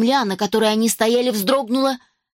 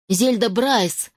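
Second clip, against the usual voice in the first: usual speaking voice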